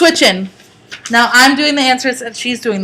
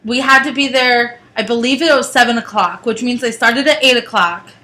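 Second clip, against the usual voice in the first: on a bumpy road. Real, not acted. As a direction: voice jolted by road bumps. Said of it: "Sorry for the bumps".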